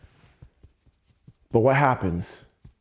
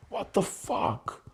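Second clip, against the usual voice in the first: slow, unvoiced whisper; whispered despair; 4 semitones higher, 7 dB quieter, slower than usual. Real, not acted. Venting at dawn without waking Hema, whispered despair. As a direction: breathe it out in despair.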